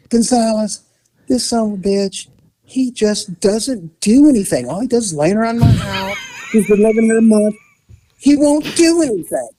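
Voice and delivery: wife griping at the cop, mock exasperated; retold angry wife. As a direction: rant about the lazy boyfriend, building up. Wife complaining to officer.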